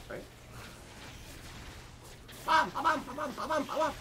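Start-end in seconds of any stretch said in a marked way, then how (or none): 2.4-3.9 high excited pam pam pam; high gleeful combo sounds; excited hit sounds. Real, not acted. Hitting an enemy in game.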